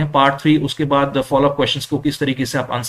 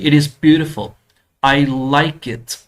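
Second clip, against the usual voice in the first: "beautiful" louder with a fall, then "I like it" slowly; falling intonation; 3 dB louder, much slower than usual. Shown as a demonstration. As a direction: stress "beautiful", then let it drop slowly. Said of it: "pitch है वो down आती है".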